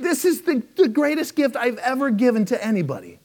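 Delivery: high, booming host reveal; Oprah announcing. Retold or imitated. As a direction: pitch it up like a hyped host. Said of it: "And she said".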